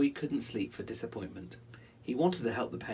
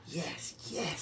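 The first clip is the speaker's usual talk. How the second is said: eager Rollo; 6 semitones higher, 4 dB quieter than usual. Acted. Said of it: "says Rollo".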